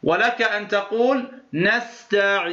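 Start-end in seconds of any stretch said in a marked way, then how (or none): 1.5-2.5 نستعين with the ya drawn out six counts; six-count madd. Shown as a demonstration. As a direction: hold the long i of نستعين fully. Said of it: "هذه ست حركات".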